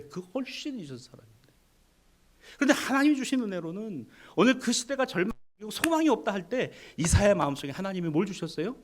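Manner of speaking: ordinary talk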